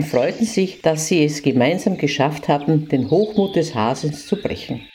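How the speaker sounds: put-on lively storytelling for children; fairy tale narration. A narrator's reading. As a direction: read it like a bedtime story to little kids.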